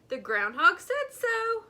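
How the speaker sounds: high, loud happy exclaim; joyful. A narrator's reading. Rabbit hopping with joy, answering the skunk excitedly. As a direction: bounce it with joy.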